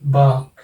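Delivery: "बाक" with a long "aa" and no r; careful model word "बाक", long open vowel; silent-r demo. Shown as a demonstration. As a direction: say "बाक" alone, leaving the r silent. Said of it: "आ हो गया इसमें".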